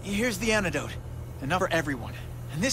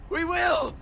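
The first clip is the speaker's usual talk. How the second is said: raised, higher determined cry; fierce vow; 10 semitones higher than usual. Acted. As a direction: promise it with everything. Vowing to save Gwen.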